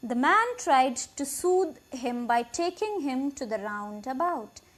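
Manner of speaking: slow, deliberate reading of the English text; slow story reading. A narrator's reading. Teacher reading the English passage aloud, slow and clear. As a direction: read each word out clearly for the class.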